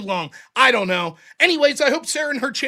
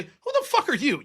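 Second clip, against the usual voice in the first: laughing it out; 2 semitones higher, 4 dB quieter than usual. Retold or imitated. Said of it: "this is what I wanted to say".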